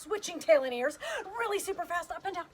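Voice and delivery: high, excited hopping chant; playful speeding up. Pretend. Urging bunny hops to go fast.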